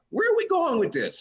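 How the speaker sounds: high, laughing question; baffled laugh at the mom; laughing bafflement. Retold or imitated. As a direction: ask it half laughing. Comic baffled by heckler.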